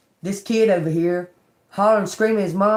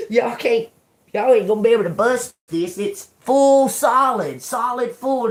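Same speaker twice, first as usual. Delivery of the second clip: amazed; 5 semitones higher, 5 dB louder than usual. Real, not acted. Marveling at solid piñata.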